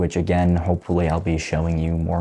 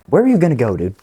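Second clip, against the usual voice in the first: calling out; 6 semitones higher, 3 dB louder, much faster than usual. Real, not acted. Calling out to the pet.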